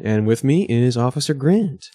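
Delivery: "Officer Grant" in a lilting show-intro tune; habitual intro intonation. Real, not acted. Host introducing the co-host to listeners, "Officer Grant" in a stylised intro tune. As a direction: introduce "Officer Grant" with a practised rise and fall. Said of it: "I always say it like that".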